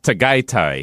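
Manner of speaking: Tagaytay said tuh-GUY-tie; correct pronunciation. Shown as a demonstration. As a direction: say "Tagaytay" with both "ay" as in "eye". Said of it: "So that's pronounced".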